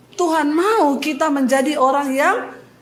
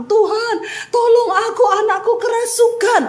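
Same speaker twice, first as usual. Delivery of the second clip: desperate plea; 8 semitones higher than usual. Acted. Canaanite woman begging Jesus.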